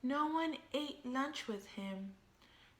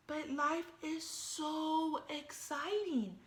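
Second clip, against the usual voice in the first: lightly voiced eager shark; 4 semitones higher than usual. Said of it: "said Clark".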